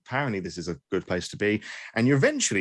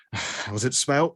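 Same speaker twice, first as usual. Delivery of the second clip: slow, strained patience after a sigh; a bouncer holding himself back, mildly; restrained irritation; 4 semitones higher than usual. Acted. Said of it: "He's trying to restrain himself".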